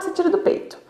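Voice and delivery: put-on hushed whisper so the baby stays asleep. Shown as a demonstration. Mother easing baby off the breast, whispered. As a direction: breathe it out without voice.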